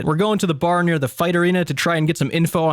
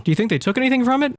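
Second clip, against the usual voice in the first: guard voice; 9 semitones higher, faster than usual. Acted. Voicing the guard.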